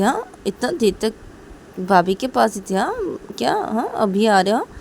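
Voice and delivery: playful brother mocking sister; teasing brother. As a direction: tease her about sister-in-law.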